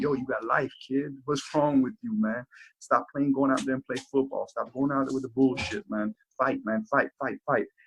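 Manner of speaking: mock crying, tearful pleading, breaking down. Retelling how an older friend broke down at the law library: imitating a friend crying. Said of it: "breaking down, crying like".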